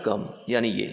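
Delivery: low, soft demonstration voice; speaking softly. Shown as a demonstration. Teacher showing what low amplitude is, softly. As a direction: drop it down low and quiet. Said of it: "मैं धीरे बोल रहा हूँ".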